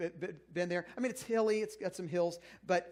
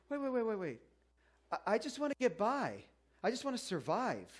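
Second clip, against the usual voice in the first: facetious protest; 4 semitones higher than usual. Pretend. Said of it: "being a little facetious".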